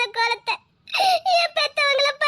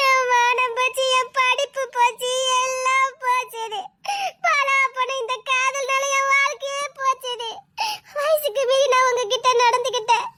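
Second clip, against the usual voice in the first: crying lament. Acted. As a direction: grieve everything she has lost. She mourns her ruined life.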